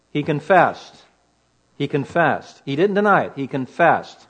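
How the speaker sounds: firm stress on "confessed", with pauses between statements; strong emphasis. Shown as a demonstration. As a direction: repeat "confessed" emphatically, each one landing with a falling tune. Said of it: "Strong emphasis".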